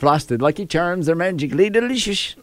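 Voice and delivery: lightly hammed Irish cereal-mascot accent; amateur Irish accent. Host showing co-hosts his accents, playful Irish accent. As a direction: try a playful leprechaun brogue. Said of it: "he does those accents well".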